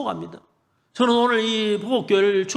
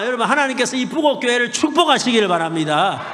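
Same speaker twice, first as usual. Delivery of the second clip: louder, higher, shouted blessings; preaching at full force; 4 semitones higher, 4 dB louder than usual. Real, not acted. Preacher blessing the church and town, shouted proclamation.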